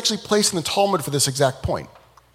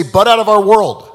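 louder, firm push-back; mock yell at God; 6 semitones higher, 9 dB louder than usual. People telling God to butt out, forceful. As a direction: tell God to stay out.

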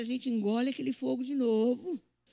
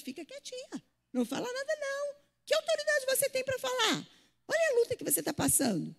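much higher, whiny mocking voice of the trials; taunting voice; 11 semitones higher than usual. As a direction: sneer at her to stay silent. The struggles voiced taunting her.

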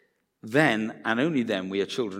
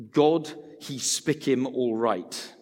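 Pidgin English reading; slower than usual. Shown as a demonstration. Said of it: "written in Pidgin English".

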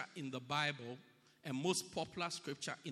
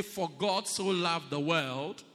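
slow, louder group recitation; congregation recitation; 4 dB louder, slower than usual. Shown as a demonstration. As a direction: lead the church in reading it out.

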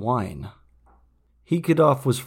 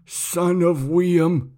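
slow, higher, lightly voiced old man; dying old man; 7 semitones higher, 3 dB louder, much slower than usual. A narrator's reading. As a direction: draw out each word.

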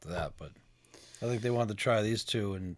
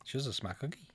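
Boston accent; 9 dB quieter than usual. Real, not acted. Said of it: "my Boston accent".

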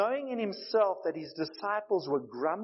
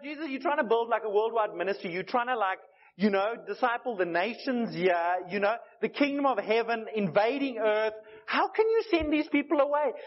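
mock protest; 4 semitones higher than usual.

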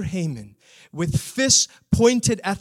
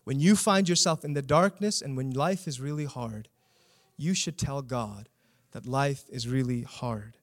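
quiet repeat; 4 semitones lower, 5 dB quieter than usual. Shown as a demonstration. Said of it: "I don't know that it can get more simple than that".

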